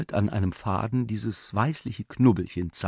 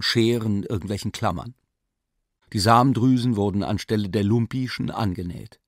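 ordinary delivery

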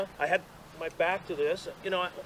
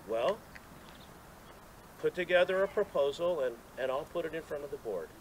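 calm quoted reply; 5 dB quieter than usual. Retold or imitated. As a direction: imitate a laid-back, matter-of-fact answer. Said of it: "Tom very calmly says".

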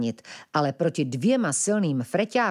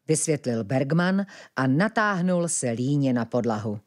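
ordinary delivery

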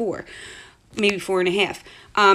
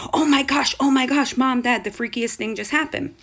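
raised, urgent child's outburst, retold; imitating excited daughter; 4 semitones higher than usual. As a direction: mimic a kid bursting in with news. Daughter rushing in with freaky news.

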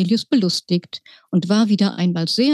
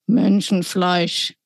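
sniffing giant; slower than usual. Acted.

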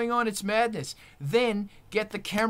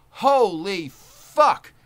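amazed exclamation; 7 dB louder, much slower than usual. Real, not acted. Amazed praise of stream.

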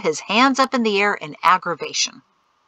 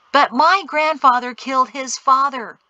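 higher, louder protest; exclaiming; 5 semitones higher, 5 dB louder than usual. A narrator's reading. Son objects to his father's trust, exclaiming. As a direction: burst out in objection. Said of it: "Peto exclaimed".

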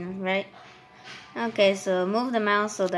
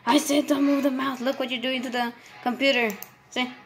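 exasperated scolding; 4 semitones higher than usual. Acted. Scolding friend again.

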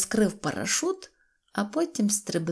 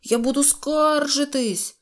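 високий протяжний скаржливий вигук; погрожуй скаргою, високо й протяжно; обурений крик; 7 semitones higher than usual. A narrator's reading. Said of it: "кричав Незнайко". (обурене волання)

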